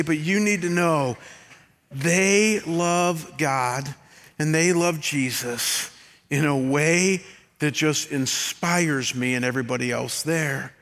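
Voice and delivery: slow, heartfelt tender plea. Shown as a demonstration. Pastor describing worship leaders, slow and tender. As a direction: let each word land, slow and gentle. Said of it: "in the most tender way".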